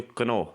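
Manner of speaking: کنو with the K clearly sounded; کنو, the silent K voiced; spelled out as read. Shown as a demonstration. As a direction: say کنو sounding every letter. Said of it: "ہم نے اس کو پڑھنا تھا کے این او ڈبلیو".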